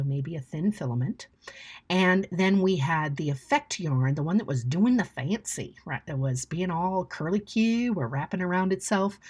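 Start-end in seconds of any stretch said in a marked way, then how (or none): 4.2-9.2 a touch of Southern twang, unplanned; slight Southern accent. Real, not acted. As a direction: slip lightly into a Southern US accent. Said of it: "suddenly got a Southern accent there".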